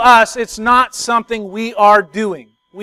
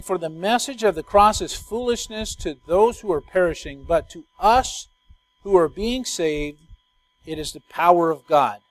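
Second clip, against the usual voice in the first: scripture reading; 4 semitones lower, 4 dB quieter than usual. Acted. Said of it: "He says this, verse eighteen".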